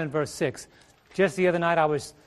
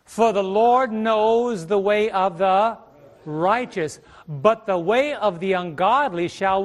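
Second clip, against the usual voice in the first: slow, loud scripture reading; 2 semitones higher, 3 dB louder, slower than usual. Real, not acted. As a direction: read the verse slowly and loudly. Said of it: "look at this".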